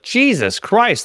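high, drawn-out exasperated outburst; appalled exclamation. Retold or imitated. Comic retelling his shock at bed bugs, appalled outburst. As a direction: blurt it out in dismay, dragging the words. Retold horrified reaction to bed bug story.

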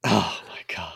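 breathy stunned whisper. Real, not acted. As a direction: whisper it in disbelief. Whispered reaction to crying.

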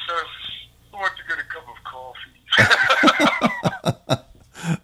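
a hint of a fussy waiter; lightly put-on waiter.

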